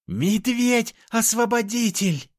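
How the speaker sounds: high, slow hailing shout; loud acclaim. A narrator's reading. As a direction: hail the hero to the crowd. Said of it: "прокричала она".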